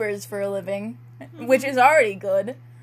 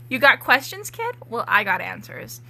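fake secrecy. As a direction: play at sharing a big secret. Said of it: "I say in fake secrecy".

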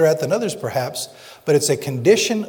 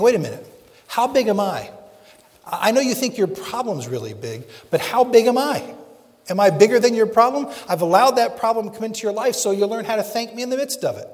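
voice of God; 5 semitones higher than usual. Acted. God speaking to the believer.

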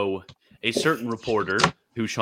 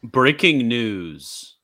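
slow, loud newsreader drawl; news anchor voice; 6 dB louder, much slower than usual. Pretend. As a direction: announce it like a TV anchor. Mock news segment intro.

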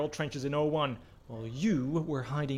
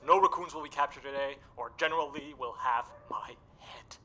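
unvoiced worried whisper; 5 semitones lower, 7 dB louder, faster than usual. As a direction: hiss the warning under your breath. Whispered worry aside.

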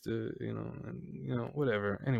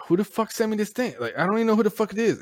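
retold bafflement; 10 semitones higher, faster than usual. Retold baffled reaction to delivery.

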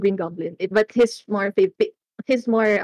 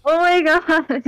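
laughing; 8 semitones higher, 5 dB louder than usual. Real, not acted. Reacts laughing.

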